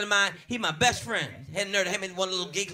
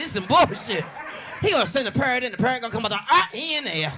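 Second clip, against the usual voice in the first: higher, louder mock indignation; mock outrage; 3 semitones higher, 3 dB louder than usual. Cop griping to partner, mock outraged. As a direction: rant in disbelief at the parrot. Mocking the police parrot.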